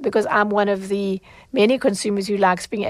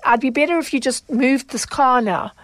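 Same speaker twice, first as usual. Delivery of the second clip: curt retort; 4 semitones higher than usual. Retold or imitated. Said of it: "an annoyed tone".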